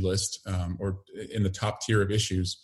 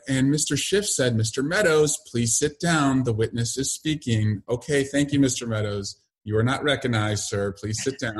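put-on lilting children's-audiobook read, pitched up; sing-song voice; 4 semitones higher than usual. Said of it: "I would do it in a sing-song voice".

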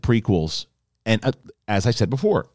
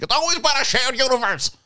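much higher mock voice; imitating Kalinowski; 14 semitones higher than usual. Mocking his friend's argument, much higher put-on voice. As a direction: parody a friend's know-it-all line. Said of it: "He's like".

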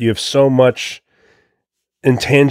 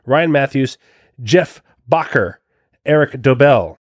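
read-out announcement; 5 semitones higher than usual. Real, not acted. Reads supporter thanks and names.

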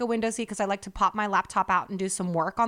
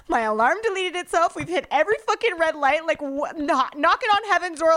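higher-pitched, agitated retelling; worked-up protest; 4 semitones higher than usual. Retold or imitated. Telling boyfriend the universe is warning her, worked-up. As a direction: list the bad omens in mock alarm. Retold panicked plea in the car.

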